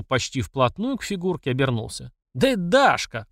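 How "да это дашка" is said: higher, excited call of recognition; shouted. A narrator's reading. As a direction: cry out the discovery to the others. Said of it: "прокричал он". (выкрикивая)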